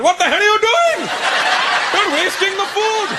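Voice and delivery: high, mock-outraged immigrant parent yelling; angry immigrant parent. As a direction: act out a scandalised parent scolding. Parents freaking out at wedding.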